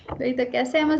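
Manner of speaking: ordinary talk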